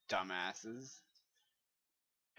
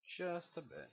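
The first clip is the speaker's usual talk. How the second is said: higher, put-on "Just a bit"; mock voice; 6 semitones higher, 9 dB quieter than usual. Player lighting the cave, higher silly repeat.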